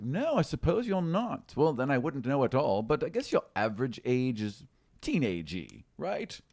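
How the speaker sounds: high, bright-eyed halfling rambling; a fussy little halfling guessing ages, pitched high; chatty halfling. Acted. Halfling to the young girl, high and fussy. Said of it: "It's like".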